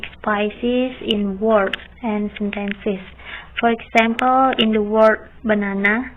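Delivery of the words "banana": "banana" stressed on the middle syllable, ba-NA-na; stress on second syllable. Shown as a demonstration. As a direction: say "banana" with the weight on NA. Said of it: "the stress is on the second syllable".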